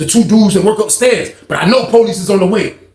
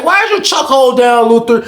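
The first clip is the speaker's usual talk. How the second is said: repeated demand; 6 semitones higher, 4 dB louder than usual. Retold or imitated. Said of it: "She like".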